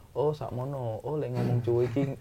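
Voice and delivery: demonstrating Javanese speech; Javanese accent. Shown as a demonstration. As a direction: imitate a medok Javanese accent, softly. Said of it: "Orang Jawa logatnya gimana".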